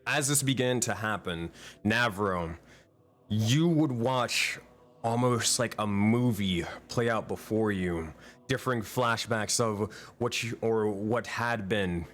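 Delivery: dramatic scene-setting narration; game master narration. Acted. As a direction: paint the scene for the players.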